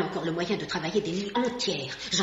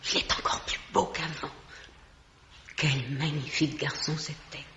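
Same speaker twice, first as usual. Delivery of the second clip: murmuré; 2 semitones lower, 3 dB quieter than usual. Acted. Admiring the dead man.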